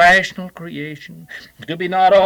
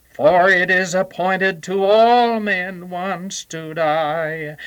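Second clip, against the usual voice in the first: solemn intoning. Retold or imitated. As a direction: chant the sermon with great solemnity. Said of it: "With great solemnity".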